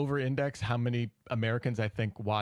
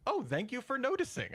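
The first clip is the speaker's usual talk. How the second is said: mock gratitude; 9 semitones higher, 3 dB quieter than usual. Voicing Scottish people answering back.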